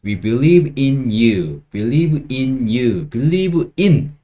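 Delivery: very slow, every word spaced out; slow drill. Shown as a demonstration. Teacher drilling a phrase, very slow. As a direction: spell it out slowly for learners. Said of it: "요거 외워두세요".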